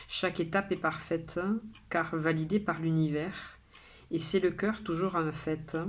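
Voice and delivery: measured poem reading, pausing after each line; poem recitation. Acted. Poet sharing today's poem with viewers, measured recitation. Reads their own poem aloud.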